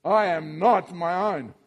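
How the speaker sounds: slow, firm and certain; really convinced. Shown as a demonstration. Preacher urging the congregation to declare it with conviction. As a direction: say it like you mean every word. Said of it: "say it like you're really convinced of it".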